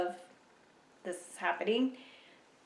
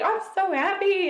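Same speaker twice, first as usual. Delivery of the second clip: imitating husband's overjoyed high, louder cry; ecstatic; 11 semitones higher, 6 dB louder than usual. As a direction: gush it as the elated husband. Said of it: "he was ecstatic".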